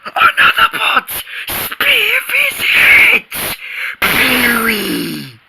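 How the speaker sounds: high, shouted cries of peril; frantic alarm. Acted. Boy cries out as his space hero is hit, shouting high. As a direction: yell like the ship is going down.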